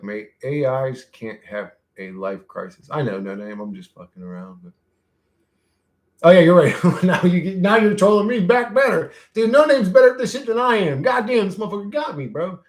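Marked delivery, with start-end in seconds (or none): 6.2-12.6 high, loud and worked up; real high-pitched, laughing disbelief; amused, impressed outburst. Real, not acted. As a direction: concede excitedly that you got beaten. Concedes he is being out-trolled.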